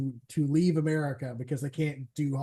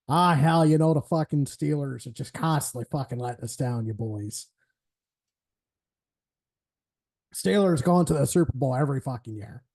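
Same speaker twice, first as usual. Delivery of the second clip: put-on loose Pittsburgh accent, drifting toward Nixon; gruff Pittsburgh sports fan in a Pittsburgh accent; 2 semitones lower than usual. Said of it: "went Richard Nixon for my Pittsburgh accent".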